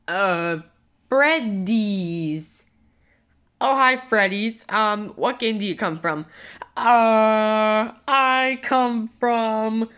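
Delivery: slow, drawn-out fake introduction; hesitant impostor stretching each word; disguised voice. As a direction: stall while inventing a false identity. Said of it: "your voice sounds a little more familiar".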